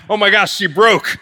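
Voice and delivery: high, loud alarmed exclamation; panicked husband. Retold or imitated. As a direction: imitate a husband thinking his wife has snapped. Husband panicking at wife's hysterics.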